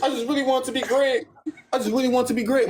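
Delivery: high, whiny mimicry; mocking Elise. Telling friends what Elise said, high mock voice. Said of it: "When she saying".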